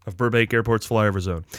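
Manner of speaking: lively, rising podcast intro; show host announcer. Acted. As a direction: build the list up like a showman.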